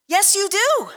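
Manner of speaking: a punchy, knowing yes; emphatic yes. Acted. Preacher to congregation, answering his own question with a knowing emphasis. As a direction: answer the crowd with a sure nod in the voice.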